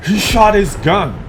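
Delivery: "He shot his gun" high, loud and drawn out in shock; wide-eyed astonished exclamation; surprised. Shown as a demonstration. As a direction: gasp it out in disbelief. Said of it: "You know I'm looking surprised".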